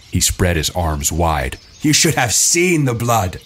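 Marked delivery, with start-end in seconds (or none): 1.8-3.4 high, slow, drawn-out excitement; gleeful relish. A narrator's reading. Jack, arms wide, sharing his kill, gleeful.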